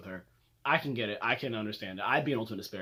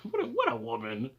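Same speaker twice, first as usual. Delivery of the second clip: amused, laughing through it, higher; 9 semitones higher than usual. Real, not acted. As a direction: chuckle out the words. Laughing at the quote.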